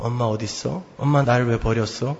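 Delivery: put-on low, very soft child's question; inward murmur. Preacher mimics lost child murmuring inwardly. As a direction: say it under your breath to yourself. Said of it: "속으로 이렇게 속삭이며".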